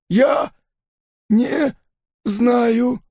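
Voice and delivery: high, halting lightly voiced gangster; broken Enso. Broken father admitting he doesn't know, halting. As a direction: drop each word out, beaten.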